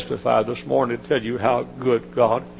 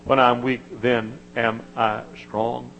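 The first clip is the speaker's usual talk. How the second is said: praising; slower than usual. Retold or imitated. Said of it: "praised him".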